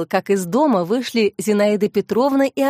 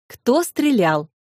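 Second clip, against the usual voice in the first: slow, deliberate "Кто стрелял"; repeated question; 2 semitones higher, much slower than usual. A narrator's reading. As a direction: press "Кто стрелял" slowly, drawing out each word. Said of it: "повторил вопрос полковник". (медленно и настойчиво повторяет «Кто стрелял»)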